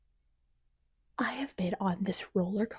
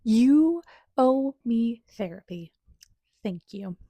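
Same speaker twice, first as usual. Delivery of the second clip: slow and louder, deadpan; mock demand; 4 dB louder, slower than usual. Real, not acted. Reader making a mock demand to the author, slow and deadpan. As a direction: spell out the demand slowly.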